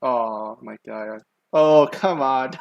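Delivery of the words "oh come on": flustered. Real, not acted. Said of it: "Don't say that".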